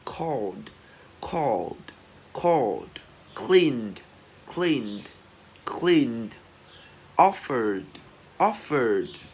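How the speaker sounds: "called, cleaned, offered" ending in a voiced d. Shown as a demonstration. Teacher drilling D endings, "called, offered" with released d. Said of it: "chúng ta sẽ đọc bật là âm D".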